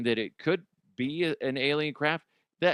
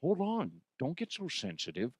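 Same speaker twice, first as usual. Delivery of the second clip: Connery voice. Pretend. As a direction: play Connery butting in to give his two cents. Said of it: "Connery, seriously".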